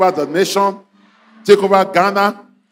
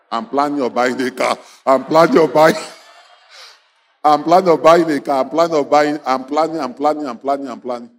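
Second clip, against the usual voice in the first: mocking broke suitor; 8 semitones lower than usual. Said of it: "He said he has plans".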